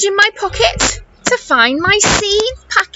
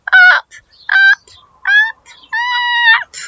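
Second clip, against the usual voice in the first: each up higher and louder; rising up; 4 dB louder than usual. Acted. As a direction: climb the pitch with every up. Dragged up into the sky.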